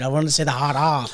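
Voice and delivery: Boston "R" dropped to "ah"; Boston accent. Retold or imitated. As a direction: say "hard R" as Boston "hahd ah". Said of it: "you can't pronounce R's because of".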